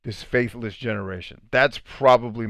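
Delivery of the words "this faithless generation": slow, drawn-out lament, lightly voiced; weary Jesus. Jesus at his wit's end, slow mild lament. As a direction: sigh it out like a tired teacher. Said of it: "that's my favorite scripture".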